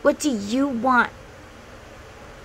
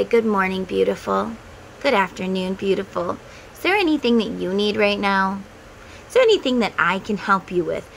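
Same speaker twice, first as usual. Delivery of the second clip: kind self-talk. Shown as a demonstration. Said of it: "Look at yourself in the mirror and say".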